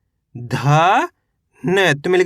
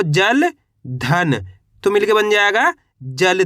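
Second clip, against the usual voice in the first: जल धन said slowly, word by word; walk the class through जल धन slowly; slow teaching pace; slower than usual. Shown as a demonstration. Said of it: "जैसे कि यहाँ पे देखो". (धीरे धीरे जल धन समझाना)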